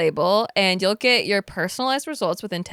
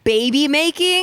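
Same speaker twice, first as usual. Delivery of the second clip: suggestive; 7 semitones higher, 5 dB louder, slower than usual. Pretend. Teasing suggestive answer.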